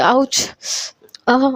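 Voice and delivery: put-on "ouch" of pain; mild pretend yelp. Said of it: "थोड़ा सा चिल्लाने लगती है". (दर्द का हल्का नाटक)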